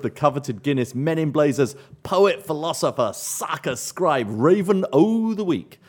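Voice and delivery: slow, high announcer build-up; mock-grand announcement. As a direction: draw out the title like an award reveal. Grand announcement of listener winner.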